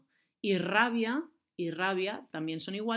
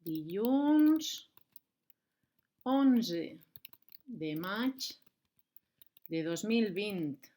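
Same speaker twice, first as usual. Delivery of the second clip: slow dictation of the date; much slower than usual. Shown as a demonstration. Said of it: "I vinga".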